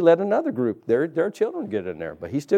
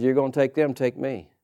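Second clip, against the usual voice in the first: Moses pleading; 7 semitones lower, 5 dB quieter than usual. Retold or imitated. Moses pleads again with God.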